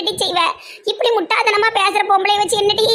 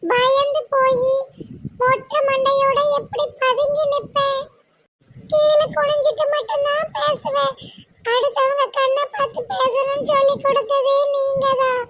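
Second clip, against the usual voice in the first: put-on young wife voice; 7 semitones higher than usual. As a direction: speak up high and gentle as the young wife.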